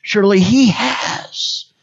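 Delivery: "has" drawn out in "Surely he has"; slow down and lean on "has"; stress on has. Shown as a demonstration. Preacher emphasizing each word of the verse, stretching "has". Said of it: "Just emphasize each word".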